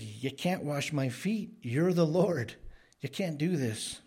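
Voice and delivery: retold protest with a touch of alarm; shocked protest. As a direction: object in mild disbelief, pitch rising. Retold Peter protesting to Jesus.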